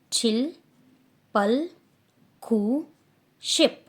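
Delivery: each Korean number called out loud and distinct; teacher counting aloud; careful Korean counting. Shown as a demonstration. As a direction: count zero to ten in Korean, loud and clear for the class. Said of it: "please pronunciation मैं कैसे कर रही हूँ उस पर ध्यान देना".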